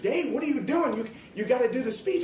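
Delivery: retold teacher. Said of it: "She said".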